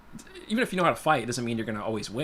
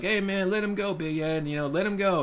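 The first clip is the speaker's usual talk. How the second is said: higher-pitched imitated call to back off; 8 semitones higher than usual. Mission boss tells attacker to release boy, calling out. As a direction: call over to stop a fight, retold. Bystander calls off the choking attacker.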